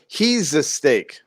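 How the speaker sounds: "He's a steak" read slowly as a misprint. Shown as a demonstration. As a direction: spell out the typo. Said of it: "it was like".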